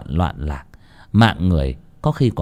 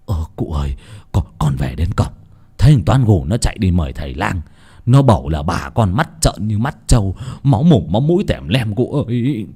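stammering; 2 semitones lower than usual. Acted. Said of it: "lắp bắp".

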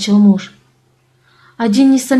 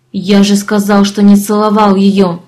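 angry insistence; 4 dB louder than usual. Acted. Leoni insists angrily.

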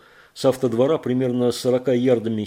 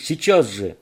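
loud, distressed cry; louder, upset; upset shout; 4 semitones higher, 6 dB louder than usual. A narrator's reading. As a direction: shout it in desperation. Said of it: "крикнул расстроенный Кейт".

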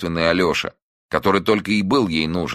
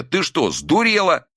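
high, frantic scolding; angry scolding; 12 semitones higher than usual. A narrator's reading. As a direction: scold her in frightened anger. Son scolds missing mother.

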